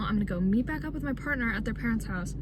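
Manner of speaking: winded, breathy and tired; out of breath. Real, not acted. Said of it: "I'm out of breath".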